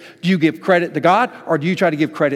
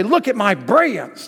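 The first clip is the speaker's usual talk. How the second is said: slow, higher, louder preening brag; boastful moon; 6 semitones higher, 4 dB louder than usual. Pretend. Preacher mocking a boastful moon, slow and proud. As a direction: show off like a vain moon. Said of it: "The moon's not gonna say".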